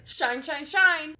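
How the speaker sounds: imitating a mad psychic cursing someone; Jackie's angry hiss. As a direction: hurl it like an angry blessing. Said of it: "when she gets mad at people".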